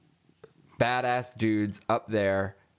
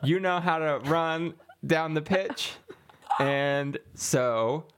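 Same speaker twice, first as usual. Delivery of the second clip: roaring rallying speech; 4 semitones higher than usual. Acted. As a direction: fire up the workers to join. Union rep rallying the fishermen.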